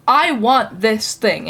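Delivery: slow, drawn-out ask; slow demanding demo. Shown as a demonstration. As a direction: spell out what you want, slowly. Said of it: "nodding very dramatically".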